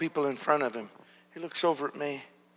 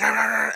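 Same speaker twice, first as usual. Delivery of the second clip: higher-pitched wordless rant imitation; mock yelling noise; 7 semitones higher, faster than usual. Preacher imitating the man's ranting, mock yelling noise. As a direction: imitate someone yelling gibberish. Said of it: "he's yelling".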